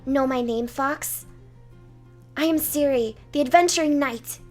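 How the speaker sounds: proud knight. Acted. Knight proudly introduces herself.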